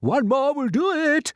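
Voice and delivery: high, loud slow call; shouted. Acted. Grasshopper urging crew on, high loud call. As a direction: call it out urgently. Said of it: "shouted the old green grasshopper".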